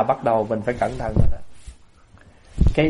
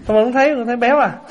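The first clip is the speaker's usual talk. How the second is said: higher, quicker words bubbling with laughter; laughing tease; 8 semitones higher, 4 dB louder, faster than usual. Real, not acted. Speaker teasing listeners about the soup, laughing tease. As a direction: tease through real laughter.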